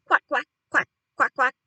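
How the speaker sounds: loud run of duck quacks. A narrator's reading. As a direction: quack loudly down the line. Bird voice on the telephone.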